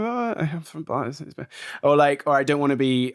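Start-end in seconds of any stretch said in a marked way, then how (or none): 0.0-1.3 put-on slow, quiet Boston accent; American accent. Answering a stranger's question in a Boston accent. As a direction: casually pass as a Boston local. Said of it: "use my American accent".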